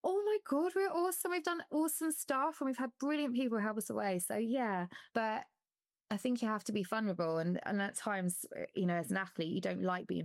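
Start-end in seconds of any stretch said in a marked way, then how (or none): 0.0-4.2 mock self-praise. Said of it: "sit back and go".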